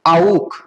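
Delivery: आउक as "ow" closing on a back kh; आउक, gliding au into kh; German auch. Shown as a demonstration. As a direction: model आउक as one distinct word. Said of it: "सीएच का pronunciation क्या होगा".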